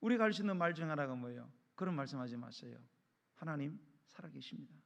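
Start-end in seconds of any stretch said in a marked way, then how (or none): 1.8-4.7 soft, low mock reply to a scoffer; gentle rebuke. Believer answering someone who curses God, quiet and restrained. Models a mild reply to blasphemers.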